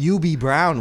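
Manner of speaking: "U B" said for Hubie, starting with a Y sound; dropped H. Retold or imitated. Naming an offender, "U B" said with the H dropped. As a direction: say "U B" as You-bee, no H. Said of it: "one of the offenders".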